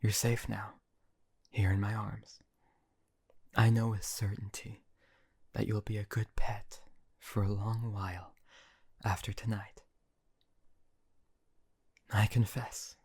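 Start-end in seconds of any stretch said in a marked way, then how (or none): 1.5-2.4 whisper. Acted. 5.5-13.0 whisper. Acted.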